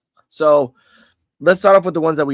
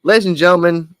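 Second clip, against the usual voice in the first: ring announcer callout; 5 semitones higher, 8 dB louder than usual. Acted. Host's announcer catchphrase.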